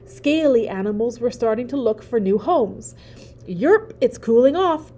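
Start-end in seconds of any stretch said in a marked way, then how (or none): 3.5-4.9 croaking frog. Acted. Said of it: "croaked one frog".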